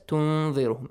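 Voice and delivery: تنذرهم with the noon held as a nasal hum; hidden noon. Shown as a demonstration. Teacher reminding of ikhfa, تنذرهم with a hidden noon. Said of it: "Again, إخفاء".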